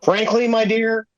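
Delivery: dramatic leading man line; movie quote delivery. Acted. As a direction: deliver it like Rhett Butler. Movie quote game, Gone with the Wind.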